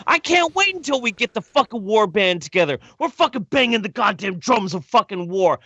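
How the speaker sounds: rally the war band like a mad radio host; frenzied rant about eating the Fox News crowd; Alex Jones rant. Pretend. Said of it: "Is he going Alex Jones on us?".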